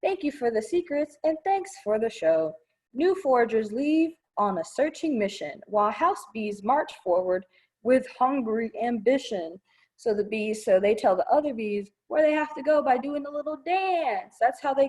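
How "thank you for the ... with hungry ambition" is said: lively rhyming picture-book read; reading to children. Acted. Librarian reading a bee book to children, sing-song. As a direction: read the verse out to the kids with a bounce.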